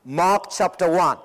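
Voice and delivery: normal talking voice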